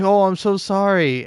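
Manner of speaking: high, sorry-sounding apology; mock apology to cat. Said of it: "you're like".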